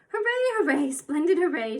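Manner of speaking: put-on a tiny old woman whooping with glee; shrill joyful cry of hooray; little shrill voice. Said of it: "she cried in her little shrill voice".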